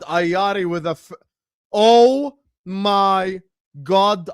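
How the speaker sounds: slow, drawn-out awe, high and loud; breathless disbelief; stunned excitement. Real, not acted. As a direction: marvel at a wonder goal. Reacting live to a wonder goal.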